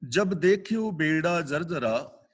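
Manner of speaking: slow, measured scripture recital; slow verse recitation. Shown as a demonstration. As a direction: intone the line slowly, each word weighed. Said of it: "ਅਗਲਾ ਬਚਨ".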